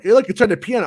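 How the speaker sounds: put-on high-pitched quote of excited kids. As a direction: imitate kids pointing something out. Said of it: "they were like".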